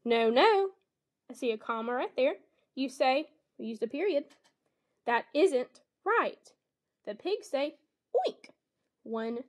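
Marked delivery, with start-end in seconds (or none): 0.1-0.7 louder, emphatic no, no; expressive no no. Shown as a demonstration. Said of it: "I'm just gonna change my expression". 5.0-6.5 slow, higher and deliberate; expressive read. Shown as a demonstration. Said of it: "change my expression just a little bit". 8.2-8.5 very high squealing oink; pig oink. Shown as a demonstration. Reading animal sounds aloud.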